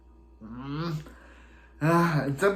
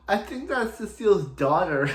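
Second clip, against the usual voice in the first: put-on drunk Barry; 5 semitones higher than usual. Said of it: "and then Drunken Barry's like".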